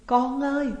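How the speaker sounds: loud, high cry; anguished wail. A narrator's reading. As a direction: tear the throat calling your child. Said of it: "Bà gào lên rát cổ họng". (mẹ gào lên gọi con, to và cao)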